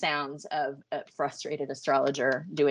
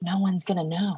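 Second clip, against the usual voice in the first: breathy, airy voice; 3 semitones higher than usual. Joking that no one will know, the speaker uses a breathy airy voice. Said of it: "Why am I doing that breathy voice?".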